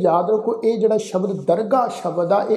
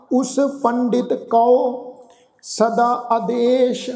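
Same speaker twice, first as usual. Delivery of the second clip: slow, measured Gurbani path, a touch higher; scripture recitation; 3 semitones higher, much slower than usual. Acted. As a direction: intone each phrase with long pauses.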